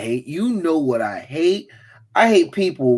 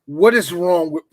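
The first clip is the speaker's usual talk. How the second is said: mock outraged parent; slower than usual. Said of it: "I'm like this".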